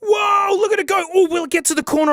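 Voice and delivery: gleeful high-pitched wonder; excited exclaiming. Real, not acted. Amazed by a screensaver.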